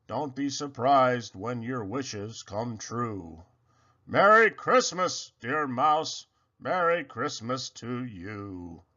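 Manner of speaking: Santa's fatherly blessing, lightly voiced; deep wise voice. A hint of Santa blessing the sleepy mouse, deep and wise. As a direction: speak it like a kindly old man. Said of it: "a voice deep and wise".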